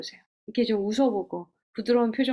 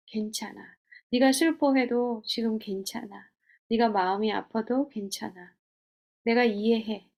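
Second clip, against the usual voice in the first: gentle reassurance. Shown as a demonstration. A counselor showing how to comfort yourself, tender. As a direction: speak to a hurting friend kindly. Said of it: "그래도 너는".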